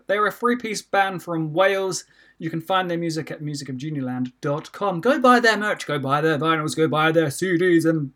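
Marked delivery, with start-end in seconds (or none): 0.1-2.1 slow, deliberate restart; careful restart. Shown as a demonstration. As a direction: say it again slowly and clearly. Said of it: "No, your ears are not deceiving you".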